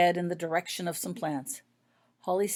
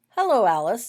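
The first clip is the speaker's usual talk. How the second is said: cheerful; 4 semitones higher, 8 dB louder than usual. A narrator's reading. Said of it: "said Healer Winonan cheerfully".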